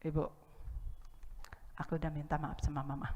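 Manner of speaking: put-on a shy little kid confessing; hushed, sheepish child; quiet child's voice. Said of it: "dia datang pelan-pelan, senyum-senyum".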